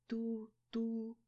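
high beeping dial tone; a voiced ringback tone; phone beep. A narrator's reading. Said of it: "ответила мне трубка".

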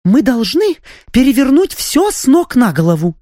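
high, rapid, eager voice; excited chatter. A narrator's reading. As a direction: rattle it off, brimming with ideas. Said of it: "возбуждённо затараторила графиня". (возбуждённо тараторя)

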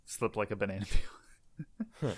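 hushed aside; whispering. Real, not acted. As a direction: whisper it under the breath. Joking aside about the fall.

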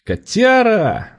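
glad greeting. A narrator's reading. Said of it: "радовался вовсе уж искренне".

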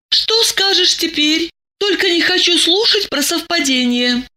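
high-pitched, hard-edged demand; steely. A narrator's reading. Masha confronts Diana over the photographs, steely. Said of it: "В голосе Маши послышался металл".

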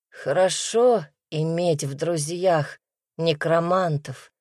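ordinary delivery, nothing marked

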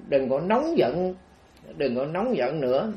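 gently retold plea for calm; soothing plea. Monk soothes an angry spirit.

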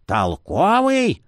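slow, high, disbelieving cry; incredulous exclamation. Acted. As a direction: echo the word in disbelief. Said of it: "воскликнула Всеокая".

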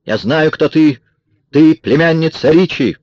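high, loud accusing cry; shouted accusation. A narrator's reading. Kara with a pistol exposes Marion, shouting. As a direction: fling the accusation out, pitched high. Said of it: "закричала она Марион".

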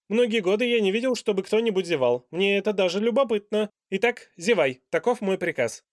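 loud, high and fast royal order; the king decrees with pompous curiosity; commanding king. A narrator's reading. King's voice.

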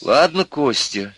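easy, conciliatory tone; peaceable soothing. A narrator's reading. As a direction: soothe him, drawing the words out. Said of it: "мирно сказала мать".

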